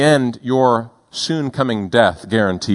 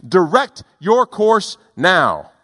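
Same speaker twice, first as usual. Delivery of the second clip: navy ship commanding; 6 semitones higher than usual. Retold or imitated. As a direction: sound like a big warship throwing its weight around. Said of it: "And the U S ship says".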